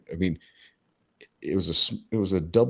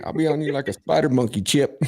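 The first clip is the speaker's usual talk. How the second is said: higher-pitched mock movie threat; movie-line quote; 8 semitones higher, 3 dB louder than usual. Podcaster quoting a favourite comedy line to co-host, playful mock threat. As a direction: throw out a film quote in a raised voice.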